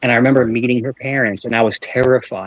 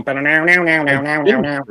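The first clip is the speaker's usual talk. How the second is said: mock movie chant; 2 semitones higher than usual. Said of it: "like you watch a movie".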